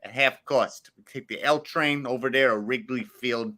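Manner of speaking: put-on a playful Chicago accent, only lightly done; hamming up a Chicago local who hypes the Cubs. Answering the co-host's request for his best Chicago, in a light Chicago accent. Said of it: "Give me your best Chicago".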